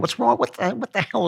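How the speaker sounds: high, mocking what's wrong; sarcastic mock of the critics' disbelief; mock outrage. Host mocking critics who find a married Marine weird.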